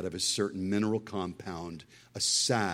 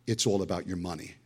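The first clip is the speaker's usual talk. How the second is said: imitating TV preacher; 3 semitones lower, faster than usual. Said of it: "That's exactly how he said it".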